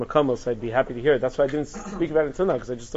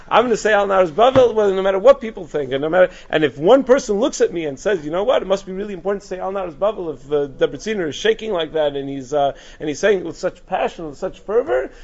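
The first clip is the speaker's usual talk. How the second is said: higher and louder vow; passionate quote; 4 semitones higher, 4 dB louder than usual. Retold or imitated. Teacher voicing the rabbi's defiant vow, passionate and loud. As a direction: declare it with fervor, not caring who watches. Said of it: "He says".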